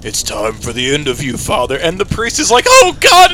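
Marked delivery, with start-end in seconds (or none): 0.0-1.8 Carnage. Retold or imitated. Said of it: "Carnage is just like". 2.7-3.3 high, loud cry of dread; imitated frightened outburst; mock alarm. Retold priest facing Carnage.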